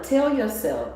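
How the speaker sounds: high, loud, slow rally cry; pep-talk shout. Shown as a demonstration. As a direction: yell it like a coach firing you up. Coaching people to yell.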